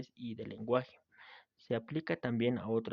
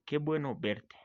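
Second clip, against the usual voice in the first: "¡Qué bueno verte!" lifted higher as an exclamation; exclamation tune; 4 semitones higher than usual. Shown as a demonstration. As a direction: read "¡Qué bueno verte!" with emphasis and surprise. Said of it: "para crear énfasis o sorpresa".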